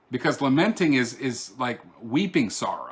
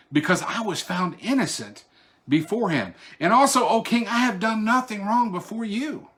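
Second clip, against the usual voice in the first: Daniel's joyful reply; 7 semitones higher, 3 dB louder than usual. Acted. Daniel calling up from the den, high triumphant reply. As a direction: declare it triumphantly up to the king.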